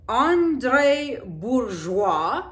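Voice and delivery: slow careful French accent. Shown as a demonstration. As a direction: say the name the French way, slowly. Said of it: "I'm trying to do my French accent here".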